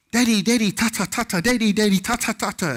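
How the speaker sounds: put-on high, eager child calling for his dad; excited little boy. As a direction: chant it like a kid bursting with news. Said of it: "he's like".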